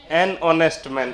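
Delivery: very slow, each word spelled out for the class; slow demo reading. Shown as a demonstration. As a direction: read it out slowly like dictation. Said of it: "इसमें एच silent होता है". (धीमे-धीमे पढ़कर बताना)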